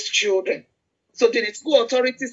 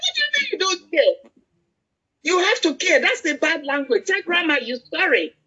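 higher-pitched retold telling-off; mock scolding; 5 semitones higher than usual. Grandmother correcting her rude granddaughter, high-pitched scolding. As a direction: scold a small child in a raised pitch.

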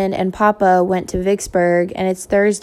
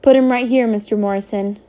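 brisk order. Acted.

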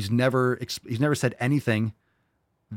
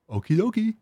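mock cheery; 10 semitones higher than usual. Mocking sing-song aside.

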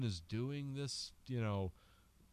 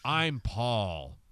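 second take, louder, with a laugh in it; louder laughing Paul; 7 dB louder than usual. Retold or imitated. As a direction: push it out loud, half laughing. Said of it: "for a different reaction each time".

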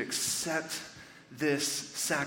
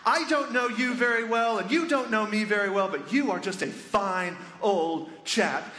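heartfelt, naive prayer, slowing on the last phrase; imitating an eager new believer praying; guard's first prayer; 4 semitones higher than usual. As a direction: pray chummily, then savour each closing word. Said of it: "and goes".

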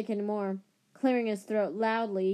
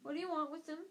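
quivering voice; 6 semitones higher, 6 dB quieter, much faster than usual. A narrator's reading. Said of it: "in a quivering voice".

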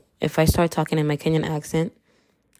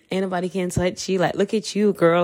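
quick mock self-hype; 2 semitones higher than usual. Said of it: "I was really hyping myself up".

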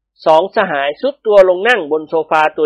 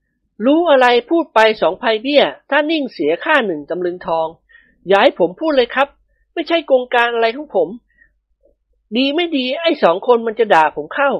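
higher-pitched male character voice; evasive husband; 7 semitones higher than usual. A narrator's reading. Man declines to tell the wives, coy evasion. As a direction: dodge the question in a raised, measured voice.

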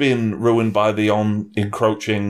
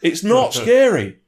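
put-on high-pitched child-voice parody; mock preteen girl; 10 semitones higher than usual. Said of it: "she talks like this".

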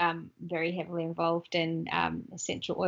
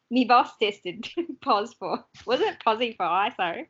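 mock Australian accent; 4 semitones higher than usual. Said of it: "repeating the Aussie line".

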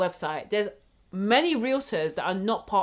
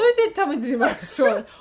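mock outrage; 4 semitones higher, 5 dB louder than usual.

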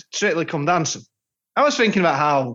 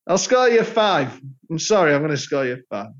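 Len's Cockney catchphrase. Retold or imitated. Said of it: "the things he used to say".

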